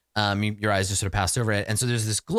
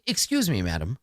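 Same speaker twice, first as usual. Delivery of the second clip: prim, hesitant call, dropping softer at the end; 2 semitones lower, 3 dB quieter than usual. Acted. Unseen voice from behind Bryn, prim and hesitant. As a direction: politely try to get attention. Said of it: "sort of prim, uh, voice".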